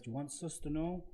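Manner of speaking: lightly put-on European accent; vague foreign accent. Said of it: "why did your accent change then".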